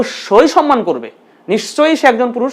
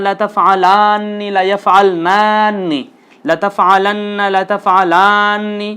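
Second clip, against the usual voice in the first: recitation drill; slower than usual. Shown as a demonstration. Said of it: "আমরা আবারও বলছি".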